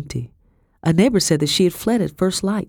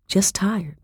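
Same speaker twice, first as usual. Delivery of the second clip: whispering; 5 semitones higher than usual. A narrator's reading. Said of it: "I lied".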